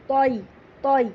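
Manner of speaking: توئی said with a heavy t gliding into an ee sound; leen sound demo. Shown as a demonstration. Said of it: "ای کی آواز نکالیں گے". (توئی لین کی آواز کے ساتھ)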